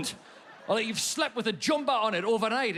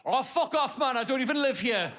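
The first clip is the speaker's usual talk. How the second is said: dismissive retort; 5 semitones higher than usual. Retold or imitated. Retort shouted from car window.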